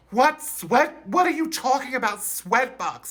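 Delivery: high, fast confusion; puzzled squeal; baffled. Retold or imitated. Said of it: "I'm like".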